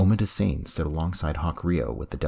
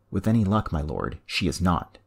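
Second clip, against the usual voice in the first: calm, even reply with a lift on any; cool retort; 3 semitones higher than usual. Acted. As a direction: answer the sneer coolly. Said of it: "Lannery's calm buzzed".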